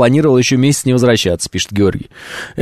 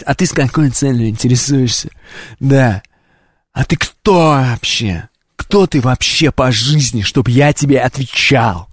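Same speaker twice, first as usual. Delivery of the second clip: street thug. Retold or imitated. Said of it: "как гопник ответить". (как гопник, медленно и с угрозой)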